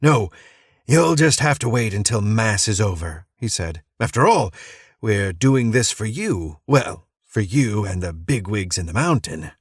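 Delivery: a hint of a manic cult leader, singsong; unhinged preacher. Crazed preacher welcoming a stranger to church, lightly manic. Madman refuses to leave Mass.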